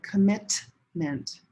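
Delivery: "commitment" with the T stopped, not released; swallowed T. Shown as a demonstration. Teacher demonstrating "commitment" with a held T. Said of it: "I don't say it".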